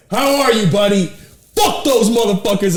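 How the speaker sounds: hammed-up Brody, friendly then defiant; imitating Brody.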